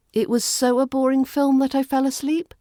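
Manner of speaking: so said with a doubtful rising question; doubtful try. Shown as a demonstration. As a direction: test so as if unsure, tune rising. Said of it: "No, that doesn't sound right".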